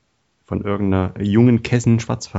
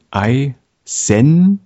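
slogan voice; 5 semitones higher, 6 dB louder, much slower than usual. Shown as a demonstration. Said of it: "als Slogan".

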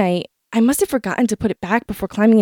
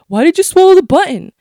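higher, louder insistent asking; mocking question; 7 semitones higher, 5 dB louder than usual. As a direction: parrot the nagging question. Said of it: "Everyone keeps asking over and over".

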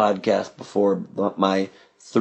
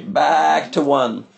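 film set calls; 4 semitones higher, much slower than usual. Pretend. Mock director calls on film set.

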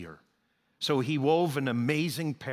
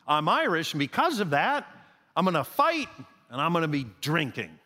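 mock Irish boast; 2 semitones higher than usual. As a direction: throw it out like a brawler's motto. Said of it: "he had made this kind of maxim in life".

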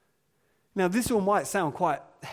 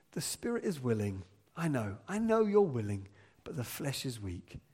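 soft, lower, gentle voice; gentle reassurance; 3 semitones lower, 4 dB quieter than usual. Retold or imitated. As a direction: speak kindly, like a patient friend. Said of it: "And he says to them".

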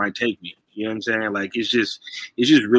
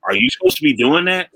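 prim hall monitor; 6 semitones higher, 4 dB louder than usual. Retold or imitated. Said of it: "hall monitor energy".

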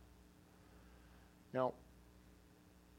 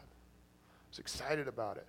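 whisper; slower than usual. Real, not acted. Whispered aside in sermon.

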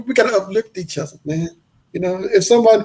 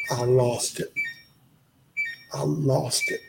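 low, soft and measured, moved by the memory; quietly overcome; 4 semitones lower, 7 dB quieter, slower than usual. Real, not acted. Man recalls learning his dental bill was paid, quietly overcome. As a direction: let it drop low and hushed.

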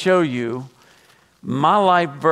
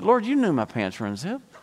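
high-pitched, mock-indignant protest; exasperated, hammed-up whine at God; retold complaint to God; 8 semitones higher than usual. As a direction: plead your grievance upward in a high voice. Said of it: "I got mad at God that night".

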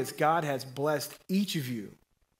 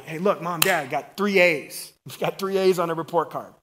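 put-on excited kid; 3 dB louder than usual. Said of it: "He's excited".

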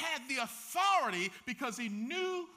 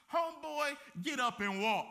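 commanding call; 3 semitones higher than usual. Acted. Jesus commands the healed man.

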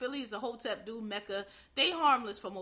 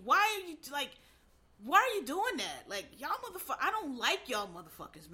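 pitched-up incredulous rant, demanding answers; raised, indignant scolding of the crowd; exasperated outrage; 4 semitones higher than usual. Real, not acted. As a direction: let the disbelief push your voice high. Ranting at killers online.

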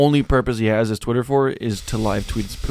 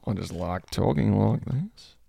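put-on Australian accent; 6 dB quieter than usual. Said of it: "like doing the accent".

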